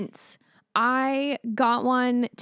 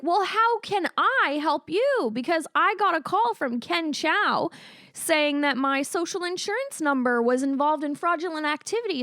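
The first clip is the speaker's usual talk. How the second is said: mock sweet; 4 semitones higher than usual. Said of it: "And I was like".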